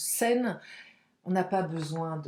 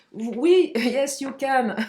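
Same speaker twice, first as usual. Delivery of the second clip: laughing; 4 semitones higher, 5 dB louder, much slower than usual. Real, not acted. Cheerful English cheer to viewers.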